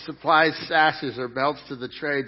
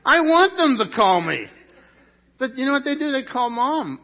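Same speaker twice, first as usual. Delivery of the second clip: raised, higher mock-frustrated whine; hammed-up jealous dad, louder; a dad pretending to be hurt, pitched up; playful louder complaint; 8 semitones higher, 8 dB louder than usual. Real, not acted. Pastor mock-complains kids call mom.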